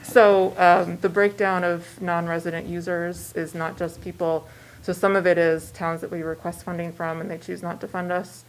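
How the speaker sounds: muffled behind a mask; speaking through a mask; through a face mask. Real, not acted. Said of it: "I'm a little muffled with mask".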